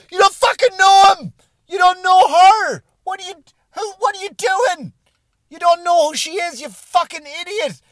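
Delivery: high, loud enraged yell at the commenters; screaming rant at the commenters; furious shout. Retold or imitated. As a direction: scream it at them, fed up. His own imagined retort, enraged.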